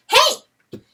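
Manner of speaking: high loud call across the moor; cried out. Acted. Weasel calling to the stag, high and loud. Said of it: "he cried out".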